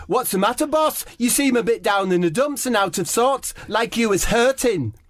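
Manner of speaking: high, fawning teammate voice; footballer impression. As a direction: coo at the boss with concern. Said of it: "Debbie says".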